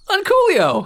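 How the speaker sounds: high mocking shout of Uncoolio; crowd jeer. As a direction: taunt him like a crowd. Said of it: "and like".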